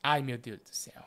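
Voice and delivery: breathless low whisper. Real, not acted. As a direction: whisper it under your breath. Tense moment waiting for answer.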